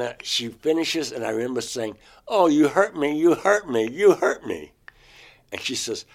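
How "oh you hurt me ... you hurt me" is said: pained cry. Retold or imitated. Nose probe hurts him.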